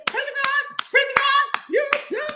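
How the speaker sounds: falsetto praise, very high; mock church praise. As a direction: belt it like a mock worshipper, up in falsetto. Mocking churchgoers shouting praise.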